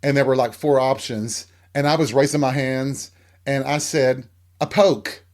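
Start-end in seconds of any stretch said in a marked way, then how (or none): 4.6-5.2 retold Southern word. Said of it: "'cause I bit into the Southern dialect".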